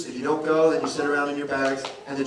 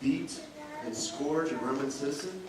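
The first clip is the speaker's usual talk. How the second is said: calm question; 6 dB quieter than usual. Retold or imitated. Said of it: "Sometimes a question is more powerful".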